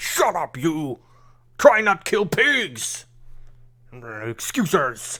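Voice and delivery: quarrelsome monster voice, very drawn out, slow, swooping. Voicing the second monster head arguing back at the first: monster head arguing back. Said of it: "arguing between each other".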